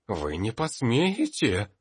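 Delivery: slow, loud, high furious hiss; hissing in anger. A narrator's reading. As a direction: spit it out in rage, slowly. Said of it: "прошипел красный от гнева профессор".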